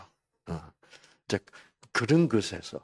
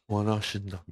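restrained, courteous plea; polite deference; 4 dB quieter, faster than usual. Acted. Leper being polite to Jesus, restrained deference. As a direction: hold back politely. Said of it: "그거를 예의를 차린다니까".

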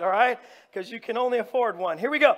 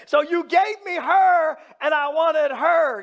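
mock indignant complaint; 4 semitones higher, 4 dB louder than usual. Jacob protesting to Laban.

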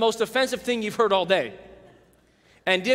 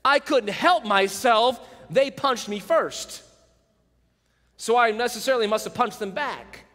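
fake apology. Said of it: "In a sense, we're saying".

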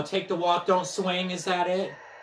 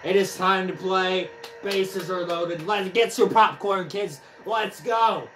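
mock ballpark announcer voice; game announcer; 4 semitones higher, 4 dB louder, slower than usual. Player opens the game for the audience, announcer style. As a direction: announce it with showy energy.

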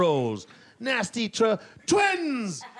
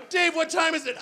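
put-on high, shouted little kid; a panicky toddler calling out; 9 semitones higher than usual. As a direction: toddler shouting the question at Dave. Acted toddler asking the time.

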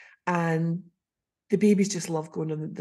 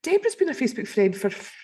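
sudden realisation; 2 semitones higher than usual. Retold or imitated. Realising who it was.

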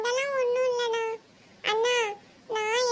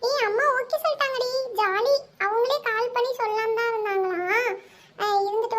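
excited. Acted. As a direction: cheer the good news. Girl tells friends mom agreed. (தோழிகளிடம் உற்சாகமாக)

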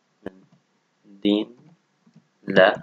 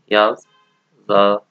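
يظلم drawn long, syllable by syllable; slow modelling; 4 dB louder, much slower than usual. Shown as a demonstration. Teacher slowing يظلم down so students can copy it. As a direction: stretch يظلم out very slowly and a bit louder.

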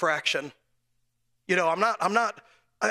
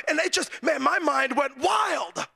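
preaching climax; 5 semitones higher, slower than usual. Real, not acted. Preacher telling the congregation of his doubts, slow shout. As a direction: let it build into a slow shout.

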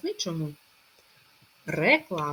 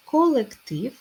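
Колектив higher and louder, stress at the end; word called out; 7 semitones higher, 5 dB louder, slower than usual. Shown as a demonstration. Teacher announcing Колектив, higher and louder. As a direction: call out Колектив with a lift. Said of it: "Пишемо Е".

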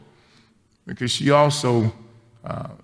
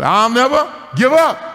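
higher, louder obedient repeat; dutiful repeating; 12 semitones higher, 4 dB louder than usual. Retold or imitated. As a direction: repeat it like a scolded schoolboy. Grandpa repeating after the girl.

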